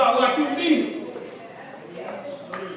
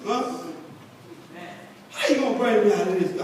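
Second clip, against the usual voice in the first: prayer to God; 4 dB quieter than usual. Retold or imitated. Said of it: "I'm talking to God".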